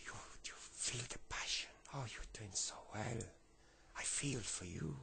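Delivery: put-on soft, breathy French-accented sympathy; rough French accent. Homeless man cheers on the lad's story, rough French accent. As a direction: encourage him gently as a put-on Frenchman. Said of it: "I can't do a brilliant French accent".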